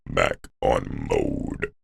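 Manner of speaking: very low, slow ingressive growl; inward voice. Shown as a demonstration. Showing a completely inward sound, deep ingressive voice. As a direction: speak entirely on the in-breath, slowly. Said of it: "That's completely inward".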